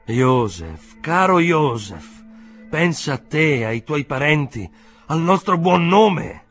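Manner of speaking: high, loud, impassioned pleading; agitated exclaiming. A narrator's reading. Uncle begging Joseph to spare the family's name, exclaiming. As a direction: plead at the top of your voice. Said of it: "esclamò lo zio".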